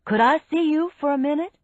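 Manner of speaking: high, loud, quick call. A narrator's reading. Major asking a suspect to step over, calling out. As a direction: call the request over briskly. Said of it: "Major Bissell called".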